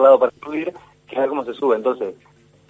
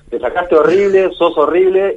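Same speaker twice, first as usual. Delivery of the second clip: harsh scolding; 5 semitones higher, 5 dB louder, slower than usual. Retold or imitated. Quoting a harsh scolding adult.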